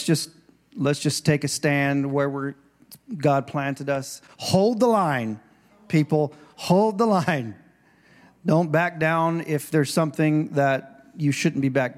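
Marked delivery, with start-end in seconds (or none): 4.4-6.3 rallying call. Acted. 6.6-7.5 rallying call. Acted.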